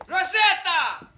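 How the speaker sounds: drawn-out call across the house. Acted. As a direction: call her name, slow and loud. Calling out to his wife.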